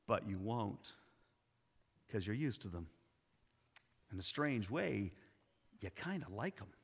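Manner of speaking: gentle, patient explanation, softening toward the end; patient and loving. Acted. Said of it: "looked at her patiently and lovingly".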